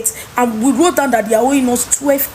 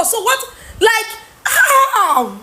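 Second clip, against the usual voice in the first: laughing in disbelief; 8 semitones higher, much slower than usual. Real, not acted. Ranting about the lost goods.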